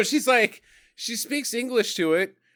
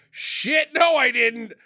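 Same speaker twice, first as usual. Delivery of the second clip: mock startled; 5 semitones higher, slower than usual. Acts Megatroll startled by the ambush.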